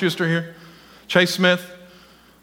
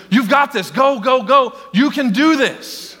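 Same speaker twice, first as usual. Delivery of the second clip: rising encouraging call; cheering on; 5 semitones higher, slower than usual. Acted. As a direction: urge them on, building. Cheering on next runner.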